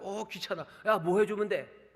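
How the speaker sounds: bothered, grudging offer of help; annoyed. Shown as a demonstration. Preacher showing Elisha as annoyed to the widow, grudging. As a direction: sigh it out like a chore. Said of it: "귀찮아하는 건가요?".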